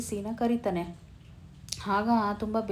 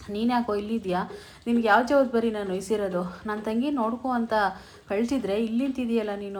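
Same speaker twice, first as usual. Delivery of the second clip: scolding; 4 dB louder than usual. Retold or imitated. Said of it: "ಅಂತ ಬೈದ್ಬಿಡ್ತಾನೆ".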